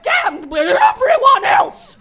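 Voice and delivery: cackling villain shouts, loud and high; manic evil shouting. Acted. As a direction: scream it in wicked triumph.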